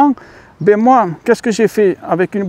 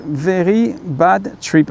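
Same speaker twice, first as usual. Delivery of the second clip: English title in a slow French accent; much slower than usual. Shown as a demonstration. Vlogger clarifying the film title for viewers, French accent. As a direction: say it slowly, the French way. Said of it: "avec l'accent français".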